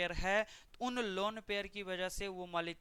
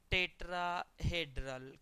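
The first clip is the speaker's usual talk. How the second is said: slow repeat; slower than usual. Shown as a demonstration. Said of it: "क्या बोलते हो?".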